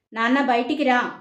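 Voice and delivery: almost shouting the call; loud summons toward the kitchen; near shout. Acted. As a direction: call him out loudly, half a yell. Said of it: "గట్టిగా అరిచినట్లే పిలిచాడు".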